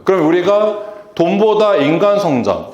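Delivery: ordinary talk, nothing marked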